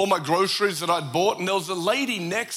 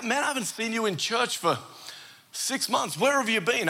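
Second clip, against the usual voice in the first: higher-pitched imitation of a puzzled greeter; lightly acted friendly questioning; concerned churchgoer; 5 semitones higher than usual. Churchgoer asking an absentee where they've been, puzzled.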